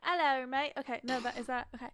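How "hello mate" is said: put-on quick test of a British accent; attempted British accent. Warming up for a friend, amateur British accent. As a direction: try out a casual British greeting. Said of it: "just do your accent".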